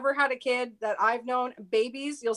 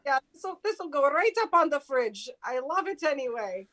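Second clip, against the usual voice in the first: grandma voice; 2 semitones higher than usual. Retold or imitated. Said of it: "You're doing your grandma voice".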